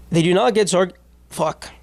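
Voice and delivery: hiccup cuts off the word; talking through hiccups. Real, not acted. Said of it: "Sorry, guys, I hiccuped".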